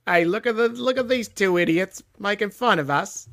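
botched Australian that lands as a London Cockney; Australian gone Cockney. Acted. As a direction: jeer in a bad Cockney accent. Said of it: "underclass British, like, Londoner Cockney accent".

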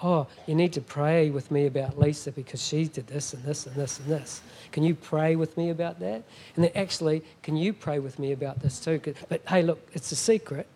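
mock a churchgoer sharing gossip as a prayer need; gossipy prayer request. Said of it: "do the old trick Christian thing".

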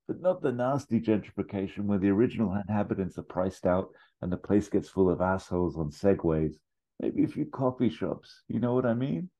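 high-pitched dying duck; croaking duck. Acted. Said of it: "Duck Bill croaks".

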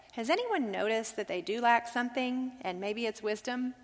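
gentle. Retold or imitated. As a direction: ask it tenderly, like a kind father. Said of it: "he very gently says".

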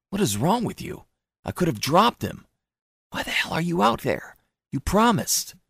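high, upset scolding; upset shrill wife. A narrator's reading. Wife scolds her husband for taking the baby out, high and upset. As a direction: snap at him in alarm. Lorelei's angry quarrel lines.

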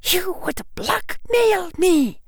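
put-on indignant old woman, slowly; outraged professor. A narrator's reading.

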